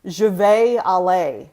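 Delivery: 'Je vais aller'를 미국식 이중모음으로 천천히; 미국식 억양을 과장해서 흉내; heavy American accent. Shown as a demonstration. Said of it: "really heavy American accent".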